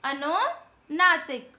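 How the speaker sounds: अनुनासिक drawn out slowly as the answer; slow emphatic answer. Shown as a demonstration. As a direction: spell out अनुनासिक for the class. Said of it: "ये सब हमारे क्या हैं?". (अनुनासिक धीरे-धीरे)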